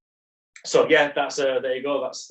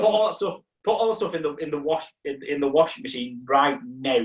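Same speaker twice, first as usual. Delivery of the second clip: livid housemate; 2 semitones higher than usual. Retold or imitated. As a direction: imitate a fed-up housemate giving orders. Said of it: "he was so livid".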